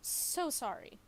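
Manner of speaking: high, loud sarcastic "So sorry"; mock apology. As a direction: sing out "So sorry" with fake contrition.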